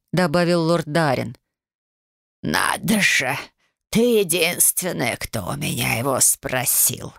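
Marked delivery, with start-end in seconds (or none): 2.4-7.1 put-on slow, wry old lady's scoff; amused and mocking; smirking. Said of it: "хмыкнула старушка". (старушка хмыкает с усмешкой)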